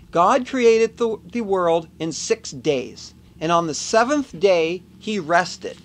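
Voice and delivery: slow, grave Bible voice; solemn scripture reading. Pretend. Vlogger quoting the Bible, slow and solemn. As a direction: read it like holy writ, drawn out slowly. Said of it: "It is written in the Bible".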